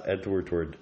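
"Edward Tword" run together as one word; said fast. Shown as a demonstration. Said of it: "if you say it fast".

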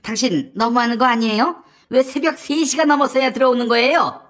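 mildly nagging wife; Kim Geon-hee. Acted. Wife to husband home at dawn, mock nagging. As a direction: scold a husband for staying out late. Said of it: "잔소리를 하는 거야".

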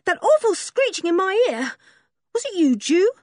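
put-on a boy jolted out of sleep, indignant; startled boy. A narrator's reading. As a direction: Dick woken by a crowing cock, high and indignant. Dick woken by the cock.

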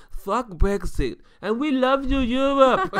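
loud, high mock rallying cry; hammed-up rowdy proclamation; imitated drunken announcement. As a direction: build to a high, elated shout while imitating a drunk. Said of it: "It's like".

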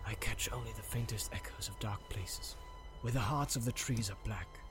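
near-whispered, listening elf; hushed elf voice. A narrator's reading. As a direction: whisper it like sensing danger. Legolas listens to the forest.

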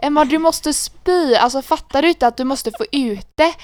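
put-on drunken pleading in a Gothenburg accent. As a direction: plead like a drunk friend, dragging it out. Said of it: "då pratar jag så här".

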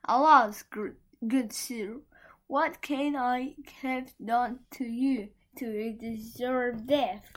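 high, slow, halting plea; trembling plea. A narrator's reading. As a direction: plead haltingly in a high, put-on voice. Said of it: "answered him tremblingly".

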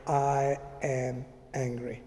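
quietly owning up to anger alone in a room; quiet admission. Retold or imitated. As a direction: say it calmly under your breath. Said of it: "I just shut the door very quietly and I said".

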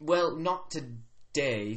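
drawn-out attempt at an Australian accent; weird accent. Orc answering a visitor, weird Australian accent. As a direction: stretch it out in a wobbly Australian accent. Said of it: "This is a weird accent".

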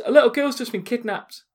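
put-on a panicky boy blurting the news; imitating the kid. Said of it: "He goes".

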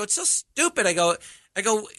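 high-pitched retold exclamation; giddy, squeaked-up recollection; giddy disbelief. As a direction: quote it high, as if helpless with laughter. Retelling helpless laughing with friends.

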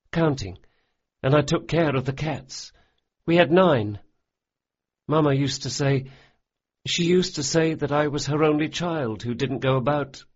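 a lightly voiced boy, contrite; boy's voice. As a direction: voice the big boy, earnest and apologetic. Jean speaks of his family.

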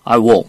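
"I will" run together like "ah wol"; American reduced pronunciation. Shown as a demonstration. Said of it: "이렇게 발음한다 그랬죠". ("I will"을 "아월"처럼 발음)

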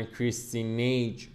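careful attempt at «کریستی نیج»; careful pronunciation. Real, not acted. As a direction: sound out the foreign name «کریستی نیج».

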